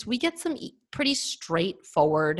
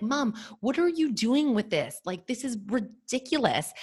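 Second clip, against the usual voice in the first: retold exasperation; 5 semitones higher than usual. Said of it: "I was so pissed".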